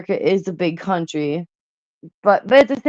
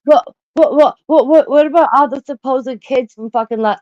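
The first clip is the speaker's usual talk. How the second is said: normal talking voice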